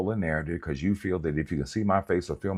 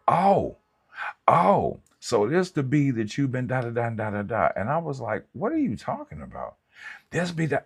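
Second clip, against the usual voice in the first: mock ex; 8 semitones higher than usual. Imitating the ex bursting in.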